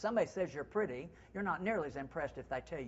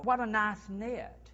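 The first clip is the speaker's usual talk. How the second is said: higher and slower, savouring "knit"; admiring compliment; 5 semitones higher, 3 dB louder, slower than usual. Shown as a demonstration. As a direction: admire it sincerely. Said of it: "Call it a knit".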